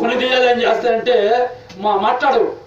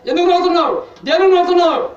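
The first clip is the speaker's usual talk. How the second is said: stern rebuke; 6 semitones higher, faster than usual. Retold or imitated. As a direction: confront the spirit, demanding an answer. Pastor rebuking a laughing demon.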